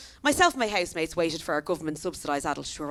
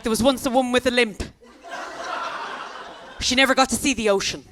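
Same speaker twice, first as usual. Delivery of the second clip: dramatic storyteller; 4 semitones higher, 3 dB louder than usual. Pretend. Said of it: "the most traumatic story".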